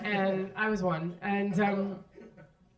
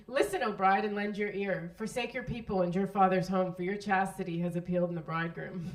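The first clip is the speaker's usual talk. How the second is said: solemn reading. Shown as a demonstration. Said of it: "I'm gonna read them to you".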